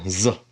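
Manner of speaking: buzzing "Z"; Zion's Z sound. Shown as a demonstration. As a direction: hold the Z buzz. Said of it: "this makes the Z sound".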